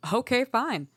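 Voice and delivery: loud, curt and fed up; angry snap. Acted. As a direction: slam the argument shut. Sisters' quarrel ending in snapping.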